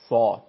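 صاد heavy and full, as if air fills the throat; air-filled throat saad. Shown as a demonstration. Teacher showing the textbook description, full heavy saad. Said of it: "باد در گلو میفته".

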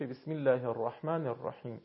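thin, light lam in Allah. Shown as a demonstration. Teacher gives the kasra example, light L in Allah. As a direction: keep Allah's L small and light.

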